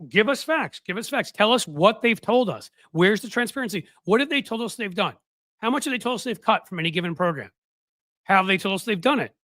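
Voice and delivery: acted-out insistent questioning; insistent demanding. Acting out panel's demand for facts.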